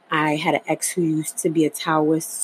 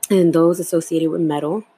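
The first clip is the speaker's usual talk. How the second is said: talking between sips of tea; words around a sip of tea; while sipping a drink. Real, not acted. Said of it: "Sorry, I'm sipping my tea".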